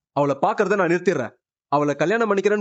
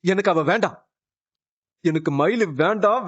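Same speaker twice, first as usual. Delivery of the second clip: tearful refusal. Acted. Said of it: "அழுவாதண்ணா".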